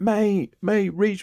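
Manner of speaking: put-on very high, half-joking pleading tone. Retelling being stuck and calling to a mate for help, a joking plea. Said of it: "like jokingly".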